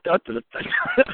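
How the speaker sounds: high, drawn-out dopey noises; mock dumb act. Caught filming by Bali and the guy, mock-dopey. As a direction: play dumb in a silly high voice. Mimics acting dumb while stared at.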